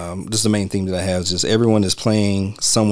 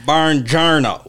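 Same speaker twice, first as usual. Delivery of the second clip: higher, slow mock Italian; bad Italian accent; 6 semitones higher, much slower than usual. Echoing the film character's greeting, hammed-up bad Italian accent. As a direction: drawl out a badly faked Italian greeting. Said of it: "that's an interesting accent".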